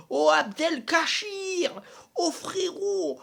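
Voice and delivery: laugh-groan, high and slow; despairing laugh. Real, not acted. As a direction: laugh in disbelief at how bad he is.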